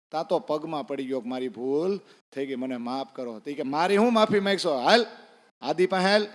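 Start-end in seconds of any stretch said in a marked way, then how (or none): 3.6-6.3 angry command. Retold or imitated. Pathan orders Ibrahim angrily.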